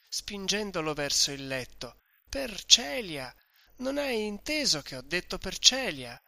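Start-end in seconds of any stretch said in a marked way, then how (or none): 2.3-6.2 higher, louder, urgent hushing over him; insisting loudly. Acted. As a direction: drown out his words, insist. Host shouting down Renzo. (l'oste insiste ad alta voce, più acuto)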